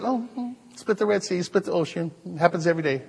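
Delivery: soft, unimpressed shrug of a voice; mock yawning at a miracle; bored church folk. Mimicking church people shrugging off a miracle, unimpressed and soft. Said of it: "a lot of people just like".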